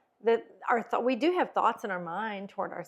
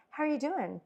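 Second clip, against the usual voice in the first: higher, lively, caring questions; upbeat tone; 5 semitones higher than usual. Shown as a demonstration. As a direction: sound glad to see them. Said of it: "You see the complete difference in your tone?".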